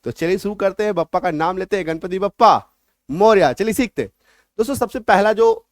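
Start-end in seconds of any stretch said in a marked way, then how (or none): 1.9-3.5 devotional call. Real, not acted. Teacher calling out a devotional cheer. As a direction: call out the blessing with gusto. Invoking Ganpati before class.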